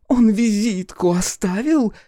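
put-on high, loud, slow drunken taunt; drunk daughter.

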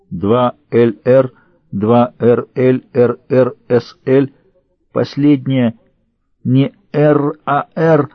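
slow, strained, droning murmur; monotone repetition. A narrator's reading. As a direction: drone the letters out like a trance. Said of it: "Рэйчел монотонно повторяла слова".

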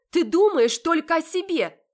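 high, loud accusing yell; furious shout. Acted. Heroine yelling at her selfish sister. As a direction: throw it at her as you leave.

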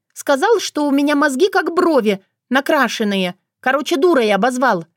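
angry. A narrator's reading. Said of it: "обозлилась Вика".

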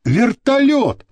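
high-pitched excited call. A narrator's reading. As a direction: call to the others, stretching the last word. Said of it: "крикнул Азиз". (высокий протяжный возглас)

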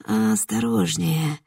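slow soft eerie warning; soothing but sinister; soft, creepy voice. Acted. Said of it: "Мягкий голос звучал совсем рядом". (мягкий, медленный, жутковатый голос)

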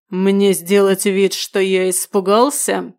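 slow menacing growl; slow ominous raspy drawl. Acted. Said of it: "прорычал я так". (медленный зловещий рык)

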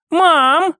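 high, questioning call; daughter's lifted voice; calling to mother. A narrator's reading. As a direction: call out lightly to get her attention. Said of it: "позвала Катя".

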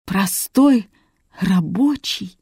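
slow, broken bitter question. A narrator's reading. Son learning who his father is, bitter. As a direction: pause between the words, bitterly let down. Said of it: "с горечью повторил Борис".

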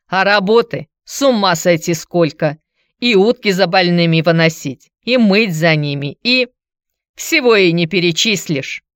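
a touch of a disgruntled woman's complaint; lightly voiced Antonina. Antonina complains about hospital work, mildly aggrieved. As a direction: grumble emphatically about the drudgery.

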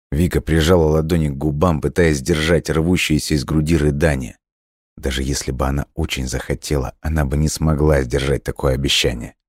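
plain reading voice

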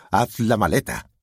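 insistent, heated command; commanding father. A narrator's reading. Father repeats order, now insisting.

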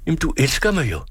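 højere, mere indtrængende og bedende; desperat bøn. A narrator's reading. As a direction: tigger hende om at sige ja. Gentager bønnen mere indtrængende. (højere, desperat gentaget bøn)

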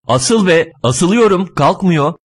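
exasperated bickering. Acted. Driver urges and passenger protests, exasperated bickering. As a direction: fire back in frustration.

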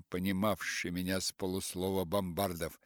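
ordinary delivery

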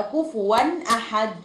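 كفوا أحد with the tanween n sounded plainly before أحد; plain izhar of the n, not merged; clear izhar. Shown as a demonstration. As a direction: pronounce the n of كفوا clearly, with no nasal hold. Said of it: "وأنطق عادي التنوين عادي جدًا".

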